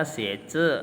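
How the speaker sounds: xie zhi said clearly as a model; Chinese word model. Shown as a demonstration. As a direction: sound out xie zhi for the class. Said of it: "Xie zhi itu menulis".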